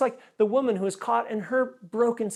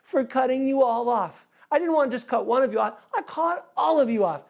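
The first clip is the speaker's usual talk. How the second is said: high, laughing, hammed-up apology to the whole line; 6 semitones higher, 4 dB louder than usual. Pastor apologizing to the waiting line, laughing and high. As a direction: beg forgiveness while laughing at yourself. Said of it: "I looked at the line and I went".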